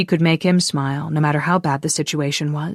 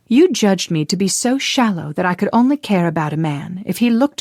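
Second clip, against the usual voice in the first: scolding; 4 semitones higher than usual. Acted. Kay glares and scolds Alex.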